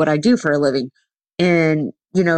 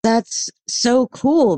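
high, drawn-out so cool; impressed; 7 semitones higher, much slower than usual. Retold or imitated. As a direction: gush like an impressed friend. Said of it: "they're like".

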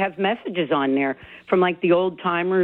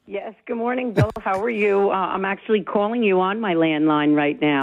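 over a landline phone; 3 semitones higher than usual. Real, not acted. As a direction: clear landline phone audio. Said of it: "It's why you sound so clear".

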